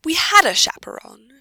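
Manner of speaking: high-pitched, courteous explanation; polite. A narrator's reading. Pansy accounting for herself to the knight, polite. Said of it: "she says politely".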